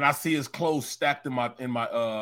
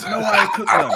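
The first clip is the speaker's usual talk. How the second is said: voiced daughter; 8 semitones higher, 9 dB louder, faster than usual.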